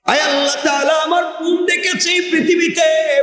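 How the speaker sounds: high chanted confession; melodic preaching. Acted. Trapped man confessing to God about his cousin, chanted preaching. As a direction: intone each phrase high, drawing out its end.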